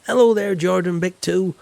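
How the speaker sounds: high, loud, sing-song hello; booming hello to a new viewer; loud cheery greeting. Acted. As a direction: call out a big friendly welcome.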